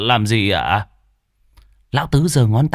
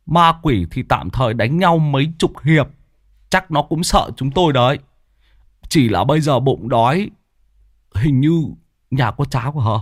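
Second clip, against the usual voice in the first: higher, a touch gruff; a tired master hinting he's hungry; lightly voiced old man fishing for porridge; frowning old exorcist; 3 semitones higher than usual. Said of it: "Lão Tứ cau mày".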